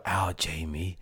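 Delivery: soft horror-movie whisper; breathy spooky whisper. Retold or imitated. Mocking his co-host's spooky way of saying a name, softly. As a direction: hush it like a creepy film villain. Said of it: "I don't whisper like some".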